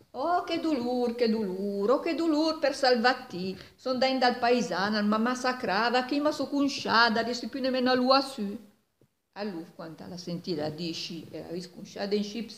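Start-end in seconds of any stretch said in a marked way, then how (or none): 0.1-8.7 loud lament. Acted. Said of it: "più se forta mo".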